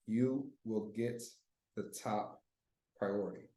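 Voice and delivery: slow, soft scripted message; softly dictating the follow-up message; reading the script softly. Shown as a demonstration. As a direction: read it out word by word, gently. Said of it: "I'll just write it out for y'all".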